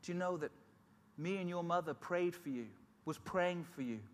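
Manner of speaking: a lightly voiced old lady pressing her point; kindly old lady telling him his mother prayed; old lady urging. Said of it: "And she said".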